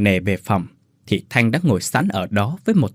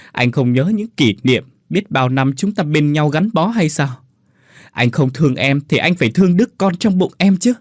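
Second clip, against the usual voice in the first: cling and beg him to stay; wife begging husband; desperate begging; 3 semitones higher than usual. Acted. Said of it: "ôm lấy chân Thanh mà nói".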